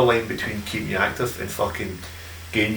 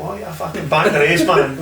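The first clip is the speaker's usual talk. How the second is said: higher-pitched imitation of renewed interest; mock perked-up reply, lifted in pitch; voice picking up; 5 semitones higher than usual. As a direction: perk up like the man on the phone. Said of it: "his voice picked up again".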